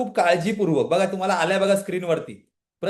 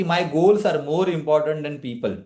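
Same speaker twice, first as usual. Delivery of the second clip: very slow, each word laid down; deliberate slow English affirmation; 2 semitones lower, much slower than usual. Shown as a demonstration. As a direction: say it slowly like a vow. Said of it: "तिथे म्हणायचंय की".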